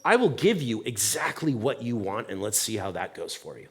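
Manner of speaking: mock fed-up, dropping low and soft; fed-up God. God answering the complainers, mock fed-up. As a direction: give it to them with weary sarcasm. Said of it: "And so he's like".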